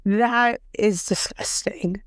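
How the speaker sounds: whispered, slow, with disgust. Real, not acted. Reacting to the news, a slow disgusted whisper.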